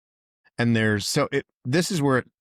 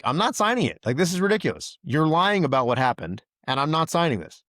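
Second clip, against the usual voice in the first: raised, insistent pitch, pushing back hard; officer refusing the supervisor, heated and raised; heated refusal; 6 semitones higher than usual. Retold or imitated. Retold heated refusal. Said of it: "the conversation starts getting heated".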